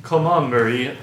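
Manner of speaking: a hint of a Soviet accent; tentative stab at a Russian accent; half-hearted Soviet accent. Shown as a demonstration. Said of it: "You do a Soviet accent".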